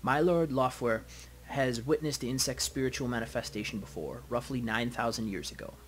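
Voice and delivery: put-on slow, deliberate German-accented envoy. Dragon's envoy addressing a meeting, measured German accent. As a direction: relish each word in a German accent. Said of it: "Brackhaus speaks slowly with a deep, melodious German accent".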